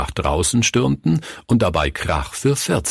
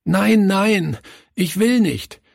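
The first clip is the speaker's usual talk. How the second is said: put-on much higher, tearful child pleading; sobbing plea; 12 semitones higher, slower than usual. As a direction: beg through sobs. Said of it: "schluchzte er". (schluchzend und viel höher: "ich will nicht")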